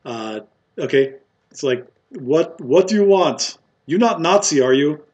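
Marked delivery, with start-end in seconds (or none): 2.1-5.0 confused barkeep. Acted. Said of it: "He's also confused".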